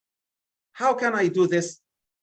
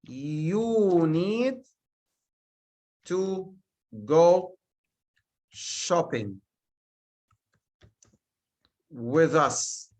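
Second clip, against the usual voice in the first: slow, word-by-word reading; spaced-out example sentence; slow dictation; 2 semitones lower, much slower than usual. Shown as a demonstration. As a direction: read it out slowly, one word at a time. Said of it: "I say".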